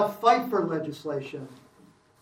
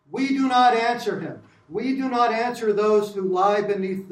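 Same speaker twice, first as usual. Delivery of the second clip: put-on Philadelphia accent Johnson; 2 semitones higher, 4 dB louder than usual. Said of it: "I'm doing Johnson in a Philadelphia accent".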